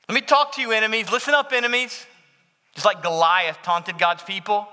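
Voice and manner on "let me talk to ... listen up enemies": higher, louder taunting call to the enemies; lightly voiced challenge, goading the enemies. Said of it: "it's almost like a taunt".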